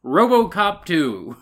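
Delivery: movie announcer bit. Retold or imitated. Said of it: "the bit from the movie is that he says".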